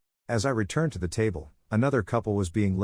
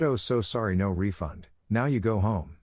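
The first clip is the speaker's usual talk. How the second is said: lightly imitated Asian accent, choppy and apologetic; a quick half-hearted Asian accent impression of the manager; mock Asian accent. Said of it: "in the most racist Asian accent".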